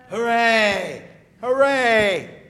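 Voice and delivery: high, loud, drawn-out hurrah; cheering hooray. Shown as a demonstration. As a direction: lead the kids in a cheer. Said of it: "Let's say it".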